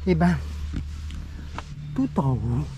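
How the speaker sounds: winded from climbing the stairs; puffing between words; out of breath. Real, not acted. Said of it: "je suis essoufflé".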